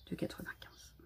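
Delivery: prix répété dans un souffle; chuchoté. Real, not acted. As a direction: chuchoter « Deux quatre-vingt-quinze » pour soi. Répète le prix pour elle-même. (répété tout bas, en chuchotant)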